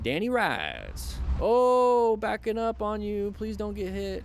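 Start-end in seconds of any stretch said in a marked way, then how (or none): 1.4-4.2 sudden high alarmed cry, then urgent; startled alarm. Real, not acted. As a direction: caught off guard as a car backs up. Car reversing toward rider.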